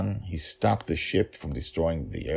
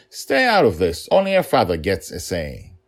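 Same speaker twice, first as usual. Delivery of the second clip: stern warning; 2 semitones higher, 6 dB louder than usual. Acted. Father warns the Emperor.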